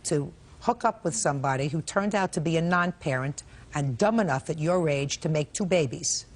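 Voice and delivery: stern lecturing judge; sarcastic scolding tv judge. Real, not acted. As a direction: scold him like a strict judge.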